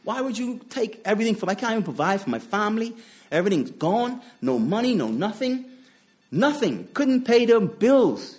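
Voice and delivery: a man on his sofa complaining to God, pained and pleading; self-pitying lament. Retold or imitated. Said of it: "I was feeling like".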